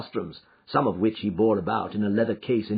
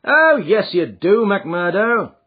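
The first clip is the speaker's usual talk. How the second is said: louder, friendly hail; genial; 10 semitones higher, 7 dB louder, slower than usual. Acted. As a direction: call out to an old acquaintance. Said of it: "cried Sherlock Holmes genially".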